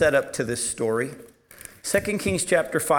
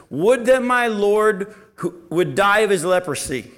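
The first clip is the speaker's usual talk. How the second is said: mock wrong reading; 4 semitones higher, 4 dB louder than usual. Shown as a demonstration. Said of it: "Is that what she says?".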